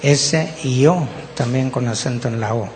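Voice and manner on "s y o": letter by letter, evenly spaced; spelled aloud, each letter separate; spelling out. Shown as a demonstration. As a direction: spell the word out for listeners. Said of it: "se las voy a deletrear también".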